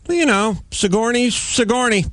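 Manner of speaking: high, pointed double name drop; name said twice. Retold or imitated. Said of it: "you just repeat their name twice".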